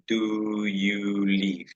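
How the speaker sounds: slow demo. Shown as a demonstration. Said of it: "Un espaciecito".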